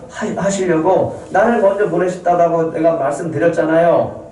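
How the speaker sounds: a brother begging them not to fear; pleading brother Joseph. Acted. Joseph comforting his brothers.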